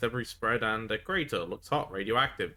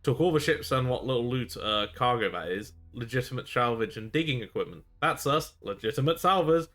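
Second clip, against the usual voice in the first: a stranded rogue begging to be picked up; rough pirate castaway. Acted. Pirate complains about Fenius.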